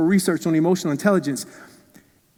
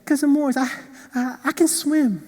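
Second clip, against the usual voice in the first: put-on a small kid pleading he can swim; little boy voice; 7 semitones higher than usual. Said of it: "he said".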